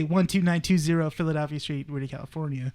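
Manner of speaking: "one two nine two zero" read as separate digits. Shown as a demonstration. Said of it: "I say it different".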